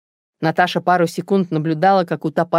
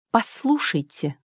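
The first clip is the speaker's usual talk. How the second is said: slow and distinct; 6 semitones higher, 4 dB quieter, slower than usual. Acted. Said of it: "начала она медленно и отчётливо".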